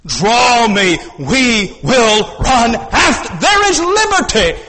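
full-throated sermon climax; preaching at full force. Acted. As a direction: proclaim it to the whole hall. Preacher proclaims the verse again.

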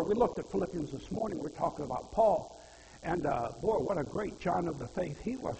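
ordinary delivery

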